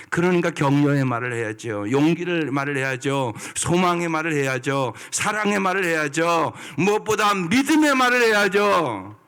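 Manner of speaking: preacher building to a fervent climax; building exhortation. Real, not acted. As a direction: climb in pitch line by line. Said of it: "building list of words".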